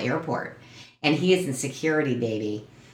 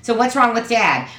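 exasperated; 4 semitones higher than usual. Retold or imitated. Daughter retelling her annoyed answer to mom. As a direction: vent at mom, mock defensive. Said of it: "And I'm like".

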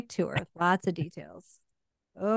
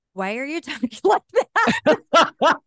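mock critic; 5 semitones higher, 5 dB louder, slower than usual. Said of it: "they're basically like".

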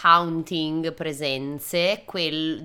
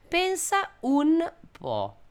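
mock amazement; 12 semitones higher, much slower than usual. Real, not acted. Ironic aside about the band.

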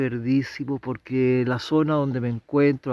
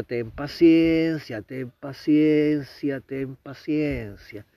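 patient advice; slower than usual. Retold or imitated. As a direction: quote the boss counselling patience, unhurried. Quoting the boss urging patience. (consejo pausado y paciente)

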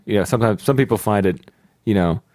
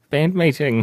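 put-on higher, rising New Zealand accent; unsure New Zealand cat voice; higher Rhys Darby cat; 6 semitones higher, slower than usual. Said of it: "It's gotta be higher".

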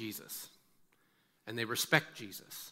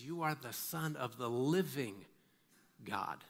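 slow, soft, with a pause before "God"; hushed declaration; 5 dB quieter, slower than usual. Acted. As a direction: let each word sink in quietly. Acts Peter's awed answer to Jesus.

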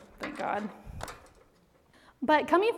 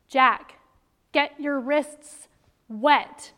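louder, very slow and firm; losing patience, spell each word out; stern warning from a frustrated mom; rising irritation; 2 semitones higher, 5 dB louder, much slower than usual. Retold or imitated. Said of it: "my pulse starts getting a little higher".

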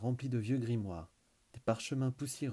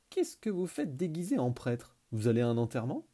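mocking sneer; 2 semitones higher, 3 dB louder than usual. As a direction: jeer at their costumes. Mignotis mocks their priest costumes. (voix moqueuse et haute)

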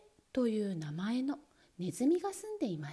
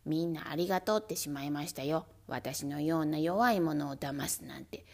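whiny mouse voice; 7 semitones lower than usual. Acted. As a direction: whine like a wronged mouse. Mouse keeps complaining.

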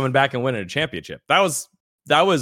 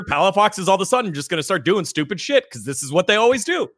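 exasperated; 9 semitones higher, 3 dB louder than usual. Real, not acted. Rising exasperated rant.

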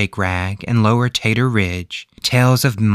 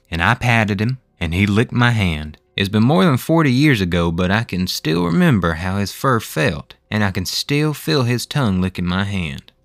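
a hint of an older storyteller's voice; lightly voiced Hugh reminiscing. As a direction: lightly play a man recalling his childhood encounter. Voices Hugh recalling the ghost dog.

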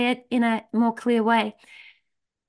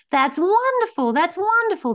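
excited villagers; 6 semitones higher than usual. Acted. Villagers cheering good news.

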